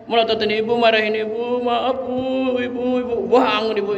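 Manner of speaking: high, wailing plea to a dead mother; wailing child. Retold or imitated. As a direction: cry out to mother, half-sung toward the end. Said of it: "teriak-teriak". (anak meratap memanggil ibu dengan suara tinggi setengah bernyanyi)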